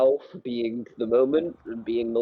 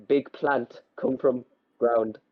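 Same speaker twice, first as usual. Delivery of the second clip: caveman voice; slower than usual. Acted. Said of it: "making caveman noises".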